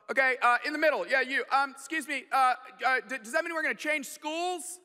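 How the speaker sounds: dad playing coach at a press conference; coach taking questions. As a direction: point to the next questioner. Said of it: "like a press conference".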